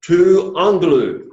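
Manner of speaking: slow, careful Greek model reading. Shown as a demonstration. Teacher modeling Greek for students to repeat, slow and careful. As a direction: lay out each Greek syllable slowly for the class. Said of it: "Let's say the sentence".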